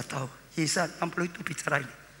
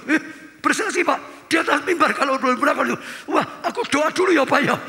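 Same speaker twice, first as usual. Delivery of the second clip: higher, giggling protest of a shy woman; nervous laughing reply; 9 semitones higher, 7 dB louder than usual. Retold or imitated. Church member to pastor, laughing nervous refusal.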